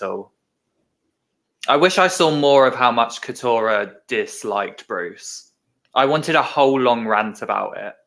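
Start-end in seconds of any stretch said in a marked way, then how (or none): 1.7-7.9 deadpan sarcasm, fake sincere wish; sarcastic. Real, not acted. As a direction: say it dry, not meaning a word. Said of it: "Are you being sarcastic?".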